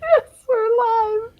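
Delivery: high, loud, laughing through words. Real, not acted. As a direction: say it while cracking up. Laughing reply in scene.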